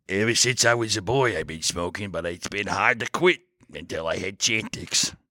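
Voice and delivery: put-on celebrity spokesman testimonial; Ray Liotta. Pitching an ad read for Chantix, mock celebrity spokesman. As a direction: confide it like an actor in an ad. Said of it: "say like that".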